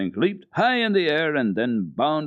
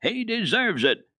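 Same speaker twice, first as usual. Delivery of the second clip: snarled; 12 semitones higher, slower than usual. Acted. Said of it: "snarled Peter".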